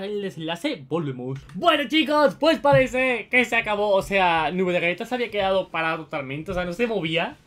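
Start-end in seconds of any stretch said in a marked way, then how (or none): 1.5-7.4 loud, high, upbeat sign-off; youtuber outro. Acted. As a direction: hype up the audience as you wrap.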